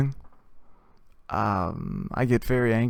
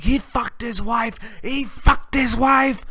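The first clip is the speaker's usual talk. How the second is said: much higher, slow squeaky singsong; mock high accusation; 12 semitones higher, 4 dB louder, slower than usual. Teller joking that the buddy did it, high slow squeal.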